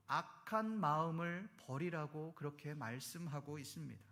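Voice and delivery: ordinary delivery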